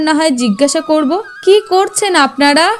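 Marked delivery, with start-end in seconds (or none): 1.4-2.7 higher-pitched, anxious-to-be-heard questioning; calling out to rouse. Acted. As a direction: call to strangers who lie unresponsive. Calling to rouse people lying collapsed.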